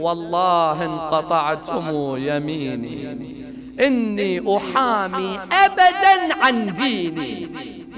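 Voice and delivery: measured Arabic verse, lifting as it goes; verse recitation. Acted. Preacher quoting the warrior's verse to the congregation, reciting.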